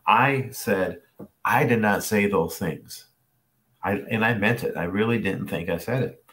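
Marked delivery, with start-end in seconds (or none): 1.4-3.1 "I did not say those things" slow and deliberate; firm, measured retold denial of "those things"; earnest denial. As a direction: deny it slowly, word by word, as if under oath. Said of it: "hand on the Bible".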